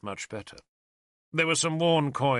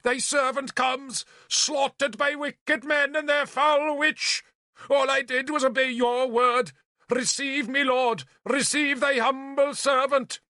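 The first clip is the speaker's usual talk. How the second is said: hammed-up martyr prayer; 13 semitones higher, 4 dB louder than usual. Bishop wails a dramatic martyr's prayer, high and loud. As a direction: play the dying martyr to the hilt.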